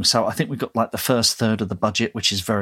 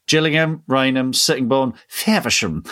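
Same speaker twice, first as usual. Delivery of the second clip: posh train announcement. Retold or imitated. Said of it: "the recorded voice on the train does it in a posh voice".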